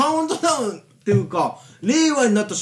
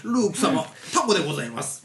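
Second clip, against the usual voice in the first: polite droid butler; 5 semitones lower, 5 dB quieter than usual. Acted. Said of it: "ございます調ですね".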